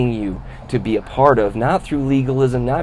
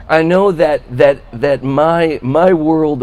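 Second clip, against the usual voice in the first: louder, slowed and emphatic; emphatic preaching; 2 semitones higher, 5 dB louder, slower than usual. Acted. Preacher owning his fault to the congregation, louder and slower. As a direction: drive the confession home.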